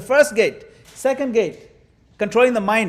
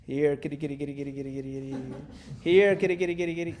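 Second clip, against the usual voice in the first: calling a cat; 3 semitones lower than usual. Pretend. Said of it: "don't call some other name".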